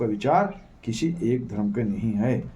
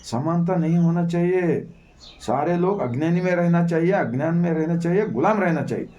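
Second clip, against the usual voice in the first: slightly raised, insistent declaiming; imitating opponents of equality; 3 semitones higher than usual. Preacher quotes those who refuse equality, in a slightly raised declaiming voice. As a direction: lightly voice the opponents laying down their rules. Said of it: "इन लोगों ने समानता का ज़रूरत नहीं है बोलते".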